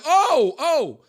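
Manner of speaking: high startled oh oh; surprised realization. Retold or imitated. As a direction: realize it all at once. Sudden realization.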